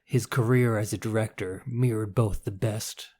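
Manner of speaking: put-on old man podcaster voice. Shown as a demonstration. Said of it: "that's a good podcasting old man voice".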